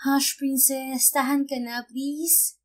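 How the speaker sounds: put-on slow, hushed soothing to a crying baby. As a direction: coax the baby to stop crying, gently.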